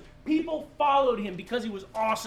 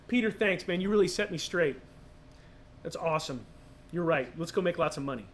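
lower, easygoing fake reply to Peter; sarcastic made-up Jesus brushing it off; mock agreeable Jesus; 5 semitones lower than usual. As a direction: play it as a joke version Jesus never said. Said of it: "he didn't say that".

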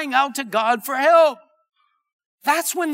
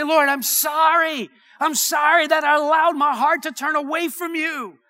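repentant cry; 4 semitones higher than usual. Acted. Preacher voicing a sinner crying out to God, repentant. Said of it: "cry out to God in repentance".

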